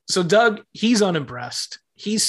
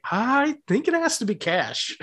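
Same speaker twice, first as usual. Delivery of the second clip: laughing wife; 8 semitones higher than usual. Retold or imitated. Wife's line acted, laughing.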